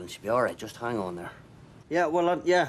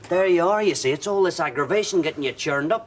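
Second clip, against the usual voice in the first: raised exasperated voice; 7 semitones higher, 6 dB louder than usual. Acted. Husband blames stress for cramp.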